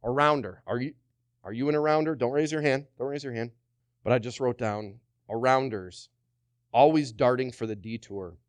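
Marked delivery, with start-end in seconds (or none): 3.0-3.5 softer, hushed repeat. Shown as a demonstration. Preacher gently repeats to the congregation, softly. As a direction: repeat Don't raise your hand much softer, half under the breath. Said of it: "repeats it, dropping to a hush".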